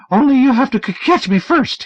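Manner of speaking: high, loud stammering yell. Acted. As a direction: yell it through a door. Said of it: "he yelled through the door".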